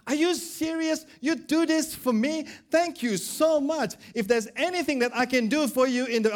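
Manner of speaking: high, delighted disbelief; amazed debtor. Acted. Second debtor thanking the manager, high and amazed. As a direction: gush your thanks in a high voice.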